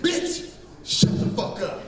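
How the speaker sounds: whispered, no voice; retold whispered snap. Comic retelling telling off his ex, whispered snap. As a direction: hiss it under your breath. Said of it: "I said".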